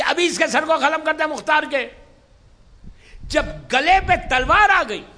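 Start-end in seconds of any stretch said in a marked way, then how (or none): 0.0-1.9 retold order, raised and loud; calling out. Ibn Ziyad orders the executioner, calling out. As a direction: call the command out to a servant. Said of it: "جلاد کو پکار کے کہا".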